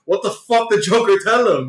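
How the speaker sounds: can't keep a straight face voicing Penguin; amused retold outburst; laughing through quote. Penguin confused, speaker laughing.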